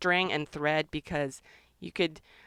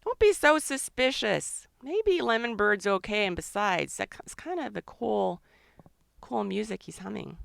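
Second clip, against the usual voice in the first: voicing the grape; 2 semitones higher than usual. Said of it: "this grape is saying".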